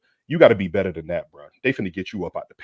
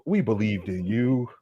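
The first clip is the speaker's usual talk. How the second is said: 1 slow; slower than usual. Real, not acted. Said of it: "repeated line".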